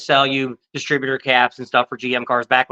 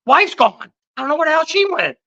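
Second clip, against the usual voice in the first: mock self-pity; 14 semitones higher, 4 dB louder than usual. Buddy fakes a sob story.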